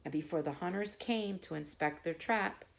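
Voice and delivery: calm bedtime narration; bedtime story reading. Acted. Reads fable to children.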